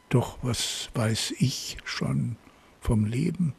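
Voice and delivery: measured poem reading with long pauses; poem recitation. Acted. Podcast host reads listeners a poem to guess, measured recitation. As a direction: recite it line by line, letting each phrase land.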